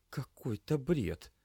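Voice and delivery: high, repeated dazed murmur; lost, repeating to herself; muttered disbelief. Acted. Lena scrubbing dishes, high and dazed. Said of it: "буркнула девушка".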